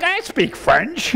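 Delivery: mock French accent. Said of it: "my fake French".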